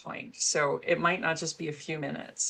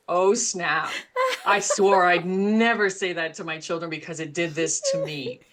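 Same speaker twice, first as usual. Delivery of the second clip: caught-out "oh snap"; 2 semitones higher, 7 dB louder than usual. Retold or imitated. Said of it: "you're going".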